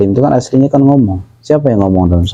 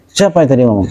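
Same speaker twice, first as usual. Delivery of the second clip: interrogating; 2 semitones higher, faster than usual. Shown as a demonstration. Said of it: "Rasulullah nggak begitu".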